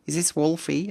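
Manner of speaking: caller on the phone. Retold or imitated. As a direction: play the cheerful stranger calling out of the blue. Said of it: "someone picked up the phone and said".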